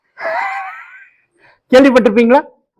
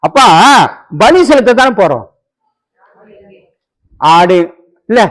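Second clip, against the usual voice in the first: lightly voiced son asking. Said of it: "பையன் கேக்குறான்".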